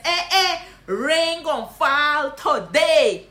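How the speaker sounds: loud, slow Guyanese Creole tease with a laugh; laughing Guyanese greeting. Shown as a demonstration. Guyanese teacher teasing a friend, laughing. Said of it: "This is what you gonna say".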